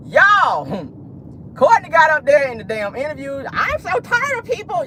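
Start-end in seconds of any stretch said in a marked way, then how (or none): 3.5-4.9 high, slow, whiny mock of a woman with a twisted mouth; mock her voice through lips pulled to one side; mocking Courtney's voice. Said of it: "Y'all know that's her voice".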